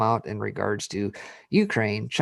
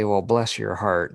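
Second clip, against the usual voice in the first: Southern saying; slower than usual. Retold or imitated. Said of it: "if you hear somebody say".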